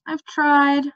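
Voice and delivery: irritated. Acted. Princess irritated with Mendembar about the plumber. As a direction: brush off the question, fed up. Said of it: "said in an irritated tone".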